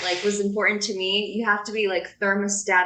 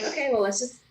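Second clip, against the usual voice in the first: calm, level-headed; faster than usual. Acted. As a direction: play the calm one in an argument. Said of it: "I'm much more calm".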